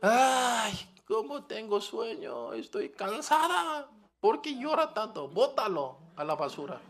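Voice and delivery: hammed-up grumpy sleepy mother; lazy complaining mother. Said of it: "¿mamá qué hace?".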